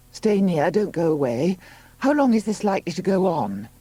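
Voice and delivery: high-pitched anxious plea; Juno, pleading. Acted. Woman in labour to her helper, pleading. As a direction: plead high for him to stay.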